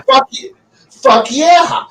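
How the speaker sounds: slow, high, hyped-up shout; excited cheer. Acted. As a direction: cheer it like a fan at a big win. Cheering on the badass farmer.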